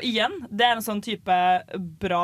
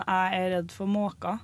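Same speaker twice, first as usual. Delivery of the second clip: demonstrating "jeg er redd for måka" in Østlandsk; Eastern Norwegian dialect; 3 dB quieter than usual. Shown as a demonstration. Co-host showing the embarrassing line, in Eastern Norwegian dialect. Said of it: "østlandsk dialekt, så er det flauere".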